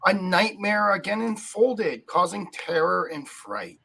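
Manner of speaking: slow, grave recited verse; solemn poem reading. Acted. Host opens the show reciting a somber poem.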